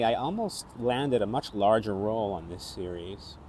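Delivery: normal talking voice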